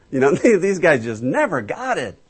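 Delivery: normal talking voice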